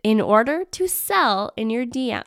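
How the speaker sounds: on the edge of real laughter; laughing. Real, not acted. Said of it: "I don't know why I'm laughing".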